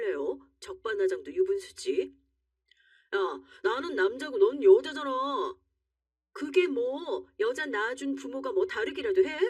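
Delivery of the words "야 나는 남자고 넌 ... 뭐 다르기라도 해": higher, indignant argument; heated quarrel. Acted. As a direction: snap back in a raised pitch. Husband and wife quarrel.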